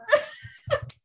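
high teary laugh breaking into a sob; a real laugh that turns to crying. Real, not acted. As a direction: laugh through tears at your best friend. Emotional moment about best friend.

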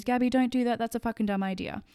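mild mock scold telling Gabby off; inner critic Susan. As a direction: play the bossy doubting inner voice, lightly. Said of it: "So she pipes in and goes".

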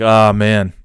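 imitated sympathetic groan; mock sympathy. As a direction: play at showing empathy. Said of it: "show some empathy".

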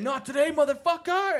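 high, loud hammed-up catchphrase; over-the-top mock battle cry; cheesy video guy. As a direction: imitate a cheesy homemade action hero. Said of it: "the most cheesiest".

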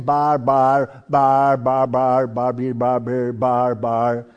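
low sing-song "bar, bar" gibberish; mock barbarian babble. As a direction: babble like foreigners heard by the Greeks. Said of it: "what they heard when these people were speaking".

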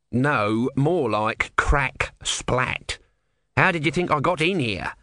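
slow, grudging tortoise voice; testy little god; grumpy tortoise god. Acted. Tortoise explains.

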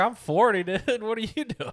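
mom voice. Retold or imitated.

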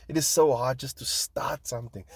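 breathy whisper of effort; whispered confession. Real, not acted. About starting the podcast, a whispered admission. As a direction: whisper it like a weary secret.

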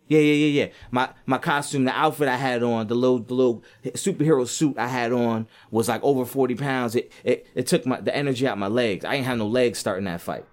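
loud, whiny excuse-making boxer; mocking Deontay Wilder. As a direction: ham up a fighter blaming his heavy costume. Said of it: "came out with excuses".

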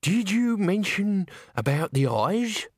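put-on theatrical elderly storyteller; ghoulish old man. A narrator's reading. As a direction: ask it with ghastly relish. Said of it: "said the old man".

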